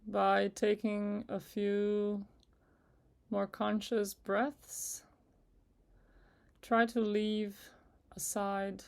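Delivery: unhurried meditation guide with long pauses; guided meditation. Acted. Guide asking listeners to relax with each breath, in calm meditation voice. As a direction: ease them gently through it, leaving space between phrases.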